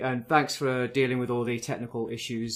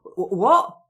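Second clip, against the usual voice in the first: stunned what; 5 semitones higher, 7 dB louder than usual. Retold or imitated. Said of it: "I was like".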